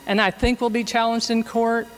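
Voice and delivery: faint voice far from the mic; quiet speech under loud hiss. Real, not acted. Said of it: "not holding the mic very close".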